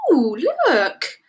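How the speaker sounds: drawn-out ooh, rising high; loud, high, excited spotting; delighted discovery. A narrator's reading. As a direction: point out a treat eagerly. Teddy spots carrots.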